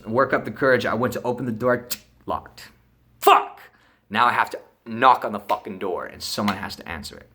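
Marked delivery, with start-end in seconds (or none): 3.2-3.6 sudden loud mock curse; exasperated exclamation; frustrated outburst. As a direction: burst out as the plan falls apart. Acting out finding door locked.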